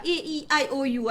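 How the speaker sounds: vowels run together without pauses; routine rote recital. Shown as a demonstration. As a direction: rattle off the vowels by habit. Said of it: "Asyik-asyik macam tu".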